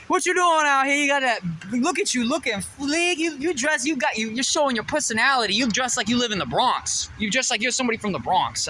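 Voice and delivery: put-on Bronx accent. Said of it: "I can't do Bronx accent".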